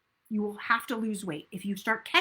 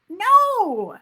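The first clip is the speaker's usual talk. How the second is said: high, loud flat rejection; emphatic no; 10 semitones higher, 9 dB louder than usual. Real, not acted. Coach rejects the tomorrow excuse with a loud high no. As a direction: shut the idea down hard.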